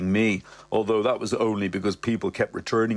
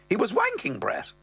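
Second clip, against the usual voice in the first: higher mother voice; mother's voice; 12 semitones higher than usual. Acted. Mother telling Brett, higher voice. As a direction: lift into the mother again. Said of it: "she goes".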